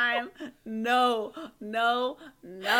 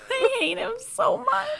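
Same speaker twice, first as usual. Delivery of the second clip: laughing; 13 semitones higher than usual. Real, not acted.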